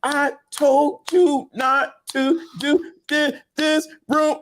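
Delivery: slow, high mock stammer; lightly voiced stammering father; imitating a stutter. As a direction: break off the word like a stutter. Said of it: "he began to stutter".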